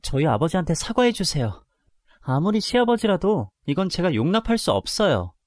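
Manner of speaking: insist, holding back rage; angry demand. Acted. Daughter-in-law demanding an apology for her father, angry. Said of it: "너무 화가 나서 시아버지를 기다렸다가".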